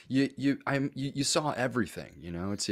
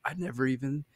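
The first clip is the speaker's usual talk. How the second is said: petrified; 10 semitones higher than usual. Retold or imitated. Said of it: "and I was petrified".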